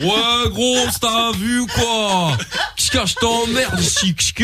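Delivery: street guy. Retold or imitated. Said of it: "les mecs de Lorenza".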